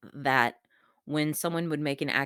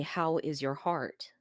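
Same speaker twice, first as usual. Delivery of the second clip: gentle question; 5 dB quieter, slower than usual. Retold or imitated. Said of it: "and ask me".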